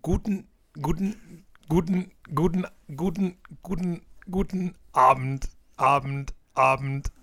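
Wörter hakend wiederholt wie ein Plattensprung; springende Schallplatte. Pretend. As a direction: stottern wie eine hängende Platte. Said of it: "die Platte springt". (wie eine kaputte Schallplatte)

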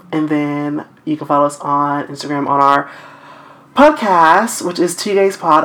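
slightly breathless, winded; out of breath, pushing through. Real, not acted. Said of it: "I don't know why I'm out of breath".

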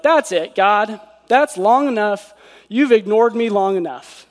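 half-hearted exasperated demand; bold complaint. Acted. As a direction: lightly act fed up with God. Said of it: "I shouldn't say something like".

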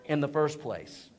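slow, laughing admission; laughing regret. Retold or imitated. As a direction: laugh at your own stubbornness. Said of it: "I was like".

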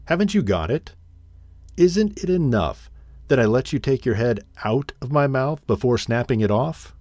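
a wolf's mild menacing snarl; feral snarling. Acted. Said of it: "snarled the wolf".

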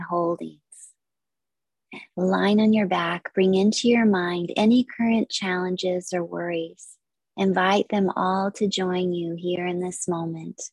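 measured, unhurried yoga nidra guidance; guided meditation. Acted. Yoga teacher leading listeners into stillness, guided meditation. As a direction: guide listeners through relaxation with long pauses.

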